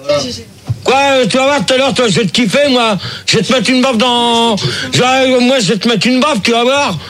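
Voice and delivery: heated scolding with menace; angry threat. Real, not acted. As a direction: threaten an unruly guest. Host threatens guests with a slap.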